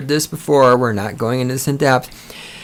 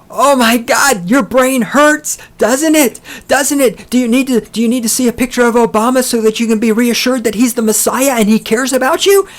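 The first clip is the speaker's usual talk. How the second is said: mock condescension; 7 semitones higher than usual. Mocking statists as slow children.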